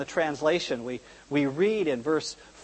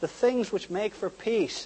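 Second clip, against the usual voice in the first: higher, slow, drawn-out lament; imitating tearful lament; 4 semitones higher, slower than usual. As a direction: plead in grief without real sobbing. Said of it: "why he was crying".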